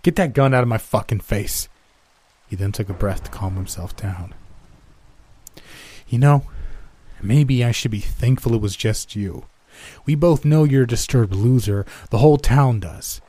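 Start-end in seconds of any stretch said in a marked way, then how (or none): 0.0-1.7 mild mock scream. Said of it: "he screamed". 6.1-13.2 loud, high, mocking sneer; sneering contempt. Old man sneering at captor.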